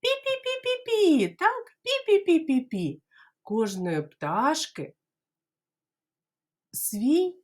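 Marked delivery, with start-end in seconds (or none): 0.0-1.4 very high squeaky peeps; pitiful chick squeak; chick peeping. Shown as a demonstration. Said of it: "А як вони пищать?". 1.8-3.0 very high squeaky peeps; pitiful chick squeak; chick peeping. Shown as a demonstration. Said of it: "А як вони пищать?".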